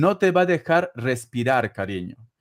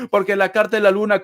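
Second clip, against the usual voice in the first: laughing, a bit faster; 4 semitones higher, 4 dB louder, faster than usual. Real, not acted. Reader explaining the moon card to a caller, laughing. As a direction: still chuckling from the joke. After joking "te está odiando.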